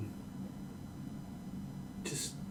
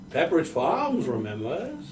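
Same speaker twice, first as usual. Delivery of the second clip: a hint of an old announcer; lightly voiced old man; old person voice. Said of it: "Remember back when Sonic games were good?".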